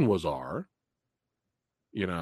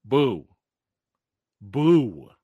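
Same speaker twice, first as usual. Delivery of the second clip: mock boo; 2 semitones lower, 4 dB louder than usual. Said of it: "y'all know what I'm booing".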